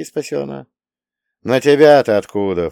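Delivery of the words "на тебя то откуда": snorting. Acted. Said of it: "фыркнул я".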